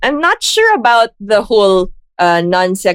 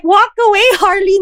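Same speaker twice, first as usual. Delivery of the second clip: much higher, quick teasing voice; mock gentle advice; 10 semitones higher than usual.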